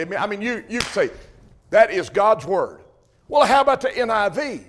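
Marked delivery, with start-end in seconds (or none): 1.7-2.8 slow, emphatic declaration on "God's word". Acted. Believer declaring what the Bible is, emphatic. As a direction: say "That is God's word" slowly, with firm weight on each word. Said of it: "I mean, un-, emphatically".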